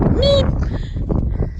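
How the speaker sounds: high squeaky Meep of a tiny pika; pika squeak. Retold or imitated. Hiker imitating the pika that yelled at them, tiny high squeak. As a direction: chirp it like a little rock critter. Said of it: "they just come out like".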